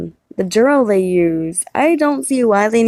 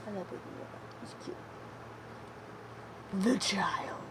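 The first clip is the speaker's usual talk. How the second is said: soft unvoiced whisper; 20 dB quieter than usual. Real, not acted. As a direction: whisper it to the toy. Whispering to Baby Yoda toy.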